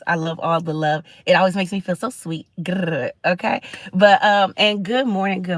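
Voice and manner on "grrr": playful growl. Real, not acted. Thanking viewers for hearts and emojis, playful growl.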